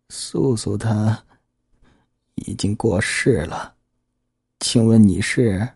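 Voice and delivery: put-on slow, choked old woman; halting words held back by sobs; tearful old woman. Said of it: "电话那边的人似乎抽噎了几声".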